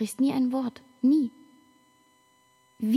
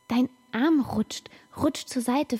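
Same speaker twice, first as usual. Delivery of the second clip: whisper; 2 semitones higher, slower than usual. Acted. Whispering over father's slipping arm.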